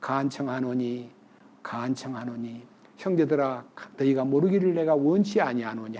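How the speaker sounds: low, hushed entreaty; gentle, low-voiced appeal to the brethren; earnest pleading. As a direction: plead softly and humbly, dropping your voice. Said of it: "간절한 마음으로".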